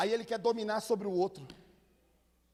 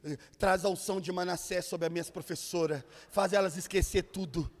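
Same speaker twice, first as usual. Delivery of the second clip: mock pleading prayer; 4 semitones lower than usual. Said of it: "Você já ficava dentro de casa assim".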